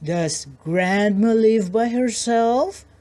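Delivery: slow, lightly voiced sly wolf; wolf questions the girl, slow and falsely polite. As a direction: ask sweetly, hiding the wolf. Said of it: "politely asked".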